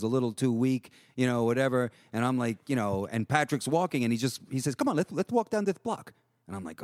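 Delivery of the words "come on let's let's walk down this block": high-pitched imitation with a lisp; lisping Patrick. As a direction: mimic a mellow friend's lisping voice. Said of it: "like, this little lisp".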